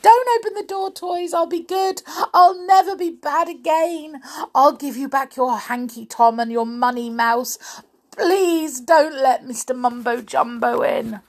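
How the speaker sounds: high, loud, desperate pleading; frightened wailing. Acted. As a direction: beg in a panicky high wail. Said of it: "she wailed".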